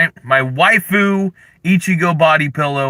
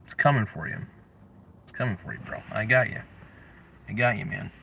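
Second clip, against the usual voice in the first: menacing hush; 6 semitones lower, 13 dB quieter, faster than usual. Acted. Menacing pillow voice.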